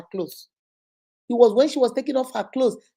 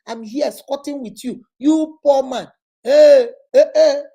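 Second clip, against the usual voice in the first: louder scornful insults ending in loud "hey"; mock contempt; 4 dB louder than usual. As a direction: scold the poor man with disdain. Girlfriend insults refusing boyfriend.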